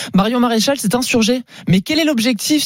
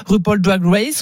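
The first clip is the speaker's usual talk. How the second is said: English accent; slower than usual. Shown as a demonstration. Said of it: "l'accent anglais parfait".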